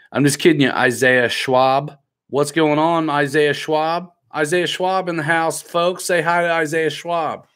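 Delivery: mock-grand livestream shout-out; playful shout-out. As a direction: greet a fan like a crowd warm-up host. Playful shout-out on viewer's request.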